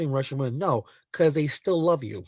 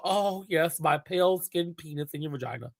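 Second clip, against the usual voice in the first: hushed, acted pleasure, trailing softer; put-on fantasy moan, kept soft; mock aroused murmur; 6 dB quieter than usual. Acts out the man's fantasy.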